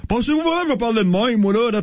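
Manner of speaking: A singer. Retold or imitated. Radio host retelling a singer's interview, lightly imitated voice. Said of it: "elle parlait comme ça".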